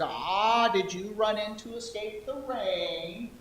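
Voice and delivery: put-on old lady voice. Shopkeeper asking the girl in old lady voice. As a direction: ask gently like an old lady. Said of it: "my old lady voice".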